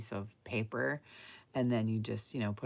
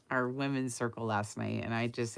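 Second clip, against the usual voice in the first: normal talking voice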